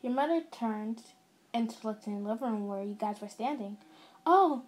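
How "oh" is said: higher, louder welcoming 'oh', settling back to normal; pleased motherly welcome; big smile. A narrator's reading. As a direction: greet a guest through a smile. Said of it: "said with a big smile".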